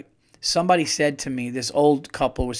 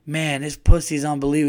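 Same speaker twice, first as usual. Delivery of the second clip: put-on loud drunk remark; 2 semitones higher, 6 dB louder, faster than usual. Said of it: "he out loud said".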